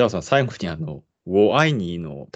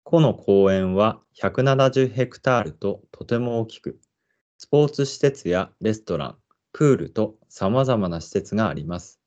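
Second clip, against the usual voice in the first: measured park guide read-aloud; guide narration; 2 semitones higher, slower than usual. Acted. Presenter introducing the park to listeners, guide narration. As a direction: read it out slowly and evenly like an announcer.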